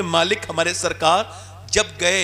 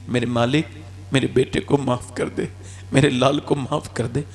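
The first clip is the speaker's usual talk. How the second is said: tender plea; 8 semitones lower than usual. Acted. Mother begging God to forgive her son, low tender plea. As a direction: plead gently for your child.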